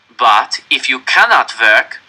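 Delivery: loud, very slow proclamation; cold officer. A narrator's reading. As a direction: announce the slogan to prisoners. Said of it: "the Nazi nodded to the capos".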